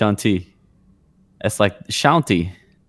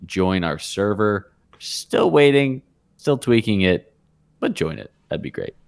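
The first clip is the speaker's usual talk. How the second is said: flat robot voice reading a list; monotone robotic list reading. Real, not acted. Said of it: "You read that like a robot".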